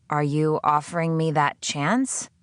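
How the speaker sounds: slow, wary question; cautious. Acted. The prisoner testing her captor, slow cautious question. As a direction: ask carefully, testing. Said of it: "I asked cautiously".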